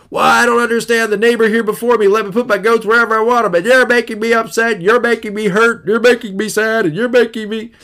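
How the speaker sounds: petulant neighbor voice protesting the fence; whiny offended neighbor. Acted. Offended neighbor complaining about goats.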